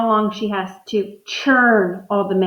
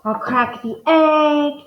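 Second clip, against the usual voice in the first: voicing her thoughts; 4 semitones higher, slower than usual. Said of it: "she's thinking".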